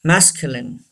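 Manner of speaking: masculine ending as short in, mas-kyu-lin; model word. Shown as a demonstration. Teacher modelling masculine the British way. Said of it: "don't say masculine".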